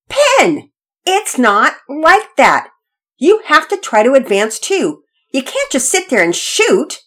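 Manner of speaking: high, loud, drawn-out complaint; bossy big brother losing patience; exasperated scolding. Acted. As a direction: correct a playmate who's doing it all wrong. Brother scolds sister over the game.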